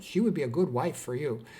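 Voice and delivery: a hint of a Puerto Rican mom's accent. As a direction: lightly imitate a Puerto Rican mother. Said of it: "My mom had this Puerto Rican accent".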